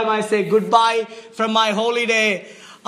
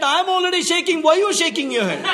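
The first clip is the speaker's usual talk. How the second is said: laughing; 4 semitones higher, faster than usual. Retold or imitated. Retold protest, fast and laughing.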